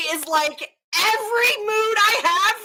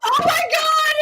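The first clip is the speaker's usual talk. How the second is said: laughing shout; 11 semitones higher than usual. Real, not acted. Cohost seeing the photo, shrieking with laughter. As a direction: crack up at the picture.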